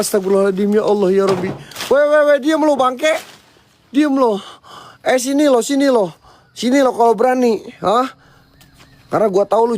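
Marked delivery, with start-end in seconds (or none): 1.9-8.1 taunting challenge. Real, not acted. Challenging the ghost to come.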